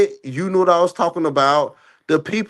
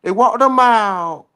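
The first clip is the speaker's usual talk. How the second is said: emphatic insistence; 6 semitones higher than usual. Real, not acted. Host insists to co-host on his version of events, emphatic insistence. Heated argument, insisting over the other.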